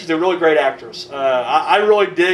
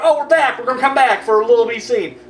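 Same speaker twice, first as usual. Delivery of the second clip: mocking returning cast; 4 semitones higher than usual. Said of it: "and now they're like".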